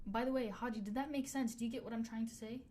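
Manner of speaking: talking with water in mouth; words around a mouthful of water; swishing water in mouth. Real, not acted. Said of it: "could you hear me swishing the water in my mouth?".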